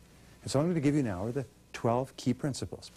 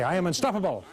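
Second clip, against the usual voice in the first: rally the crowd with conviction; said like you mean it; 6 semitones higher than usual. Shown as a demonstration. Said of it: "say it like you mean it".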